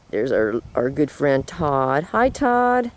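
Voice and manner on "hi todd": high sing-song voice for the dog; talking to a pet. Real, not acted. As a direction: coo at the dog, much higher. Greeting a dog.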